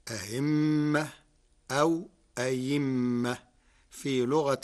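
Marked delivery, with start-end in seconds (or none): 0.1-1.1 أهمة with the second hamza softened toward ha; eased hamza. Shown as a demonstration. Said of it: "بتسهيل الهمزة الثانية". 1.7-3.4 أيمة with the second hamza replaced by a ya sound; أيمة, hamza swapped for ya; hamza turned to ya. Shown as a demonstration. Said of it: "وإبدالها ياء".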